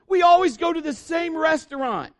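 put-on high, loud whiny kid; mock whining son; complaining boy. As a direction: gripe like a fed-up child. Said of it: "one of them was like".

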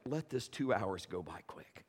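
low whisper; whispered wish. Retold or imitated. Preacher wishing the flight over, whispered. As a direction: murmur a quiet prayer under breath. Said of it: "I was just like".

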